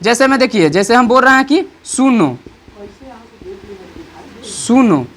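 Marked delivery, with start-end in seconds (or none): 1.8-2.4 सुनो with its vowels stretched a little; lengthened सुनो, as if calling someone; slightly drawn-out call. Shown as a demonstration. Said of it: "साउंडवा थोड़ा सा आगे खींच रहा है". 4.5-5.0 सुनो with lengthened vowels; a stretched सुनो, set apart; slightly drawn-out call. Shown as a demonstration. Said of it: "साउंडवा थोड़ा सा आगे खींच रहा है".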